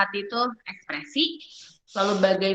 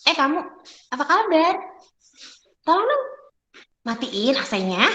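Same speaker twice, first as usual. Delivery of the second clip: warrior tone; 6 semitones higher than usual. Shown as a demonstration. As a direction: bark it like picking a fight. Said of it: "pakai tonasinya warrior".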